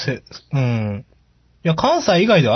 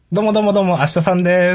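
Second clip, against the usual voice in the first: bright, higher showman's greeting; manzai stage entrance; 5 semitones higher, faster than usual. Pretend. Comedian stepping out to open a manzai act, mock stage greeting. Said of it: "なんでそんな漫才の入りみたいな感じになってるの".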